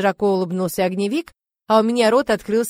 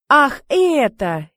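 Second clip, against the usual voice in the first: a touch disappointed; 5 semitones higher, 4 dB louder, much slower than usual. A narrator's reading. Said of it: "немного огорчился Ромов".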